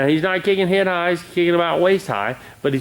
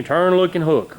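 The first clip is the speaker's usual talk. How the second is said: called command; 3 semitones higher, 4 dB louder than usual. Real, not acted. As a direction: bark the count to the student. Instructor calls drill steps.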